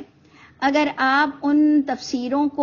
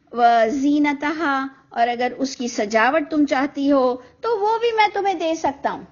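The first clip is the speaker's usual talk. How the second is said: gentle, affectionate explaining tone; loving recitation. Shown as a demonstration. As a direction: read it tenderly, as a husband to his wives. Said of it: "اس کو کس انداز سے آپ کو پڑھنا ہے". (پیار سے نرم لہجے میں پڑھنا)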